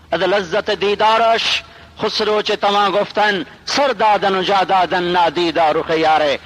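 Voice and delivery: slow, measured poetic delivery; Persian verse recitation. Acted. Preacher quoting a couplet on seeing the Beloved, slow recitation. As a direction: draw out the couplet.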